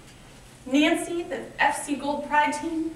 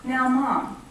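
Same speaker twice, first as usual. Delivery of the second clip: lightly voiced polite six-year-old, climbing higher at the end; polite little daughter; 3 semitones higher than usual. A mom retells her daughter calmly ending their conference, lightly imitated polite child voice. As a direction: gently lecture your mom like a tiny diplomat. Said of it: "very politely and very respectfully looks at me and says".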